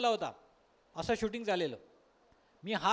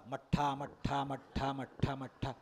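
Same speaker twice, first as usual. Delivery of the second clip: teasing call; 6 semitones lower, slower than usual. Retold or imitated. Waiter teasingly calls buttermilk.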